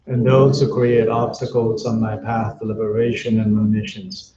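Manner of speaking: even, measured chant-like prayer reading; prayer recitation. Real, not acted. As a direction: recite the prayer steadily, line by line, on a level tone. Recites Buddhist prayers aloud.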